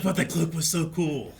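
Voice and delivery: high, loud gushing whine, half laughing; mock fanboy protest. Host answering his own scolding, mock fanboy protest. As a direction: protest like a smitten fanboy, playfully. Gushing comeback in imagined self-argument.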